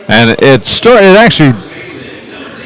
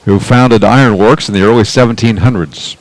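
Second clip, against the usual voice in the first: measured radio announcer read. Pretend. Announcer reads town history to his partner, radio voice. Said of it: "radio voice?".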